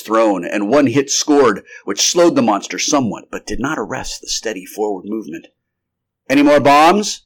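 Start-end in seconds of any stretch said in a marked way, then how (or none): 6.3-7.2 loud, raised-pitch demand; urgent demand. A narrator's reading. Doctor demanding more bombs mid-chase, urgent. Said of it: "demanded the doctor".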